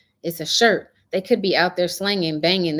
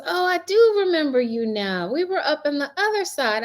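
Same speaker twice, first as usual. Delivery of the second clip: put-on young man's voice; 10 semitones higher than usual. Young seller quoted, high.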